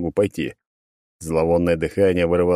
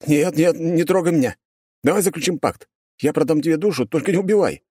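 high, panicky begging; fake pleading; 10 semitones higher than usual. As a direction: beg for your life, hammed up. Hero fakes begging demon.

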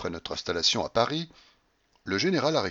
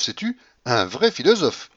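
carried-away cry; 3 semitones higher than usual. Acted. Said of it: "s'écria-t-elle, toute transportée".

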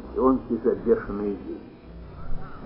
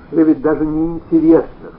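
reproach; 4 semitones higher, 8 dB louder than usual. A narrator's reading. Husband reproaching wife.

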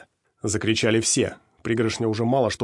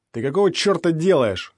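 higher, much louder yell; angry yell; 7 semitones higher, 6 dB louder than usual. A narrator's reading. Skinny man yelling after being hit by the rag: angry yell. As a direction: bellow it in outrage. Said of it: "заорал тощий".

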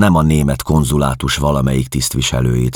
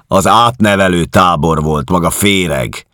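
loud, higher scornful declaration; contemptuous; 6 semitones higher, 5 dB louder than usual. Acted. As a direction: spit out the contempt. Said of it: "jelentette ki megvetően".

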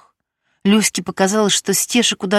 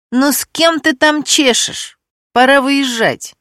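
slow, higher, grumbling impatience; a hint of an irritated man calling her away; displeased male voice; 7 semitones higher, slower than usual. A narrator's reading. Man in the background hurrying Stesha, mildly displeased. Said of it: "недовольно произнёс".

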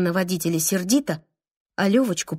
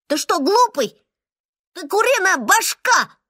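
higher and louder scolding cry; shouting; 9 semitones higher, 4 dB louder than usual. Acted. Little mum shouting at the boy who blames himself, loud scolding cry. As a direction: shout him out of that idea. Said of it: "закричала маленькая мама".

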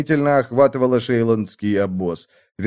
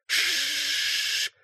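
fuse hiss; 13 semitones higher, 11 dB quieter than usual. A narrator's reading. Fuse hissing.

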